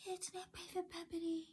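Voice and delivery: soft, high, monotone mimicry; mock her in a small, high, quiet voice; mocking dim officer. Driver mimicking the officer who towed the car, mocking. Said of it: "She was like".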